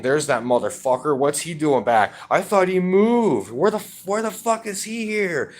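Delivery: rising from annoyed to a high-pitched mock scream; mock screaming grandpa. Grandson imitates grandpa seeing him back home, mock screaming. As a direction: imitate an irate grandpa, pitch climbing sharply and words stretching. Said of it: "Grandpa starts screaming at me and saying".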